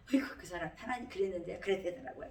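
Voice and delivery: quick, mildly plaintive mock tattle; tattling. Preacher imitating their early prayers to God, tattling. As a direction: tell on someone to God in a hurry. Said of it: "이 고자질을 제가".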